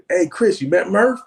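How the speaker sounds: high, loud casual hail; retold calling out. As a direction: imitate a director hailing someone in passing. Director calls out while passing by.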